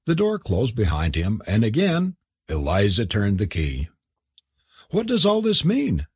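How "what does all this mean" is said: angry demand. A narrator's reading. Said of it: "demanded Kathleen angrily".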